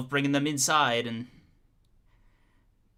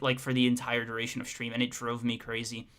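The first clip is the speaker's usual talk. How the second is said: usual speaking voice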